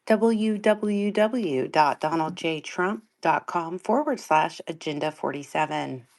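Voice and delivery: slow, upbeat announcer read of the web address; tour guide voice. Shown as a demonstration. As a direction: spell out the URL like a peppy orientation leader. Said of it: "it's very much my tour guide voice".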